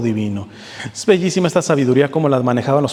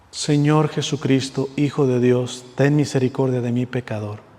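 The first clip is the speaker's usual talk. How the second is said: contrite prayer; 2 semitones lower, 4 dB quieter than usual. Shown as a demonstration. Preacher showing the congregation a contrite prayer, softly and humbly. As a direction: pray it quietly as a repentant sinner. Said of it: "toca ir diciendo y viviendo y llorando".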